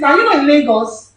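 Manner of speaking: usual speaking voice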